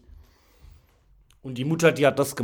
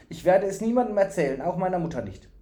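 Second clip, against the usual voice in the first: quick, high, eager vow; lightly voiced fool, pitched up; earnest fool's promise; 7 semitones higher, 4 dB louder, faster than usual. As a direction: promise it with childlike urgency.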